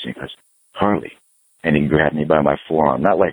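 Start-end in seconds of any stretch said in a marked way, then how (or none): 0.7-1.1 understated imitation of a stern man; grave, serious. Old guitarist addressing him with a serious look, gravely imitated. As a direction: say the name gravely, as if quoting him. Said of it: "got this look all serious".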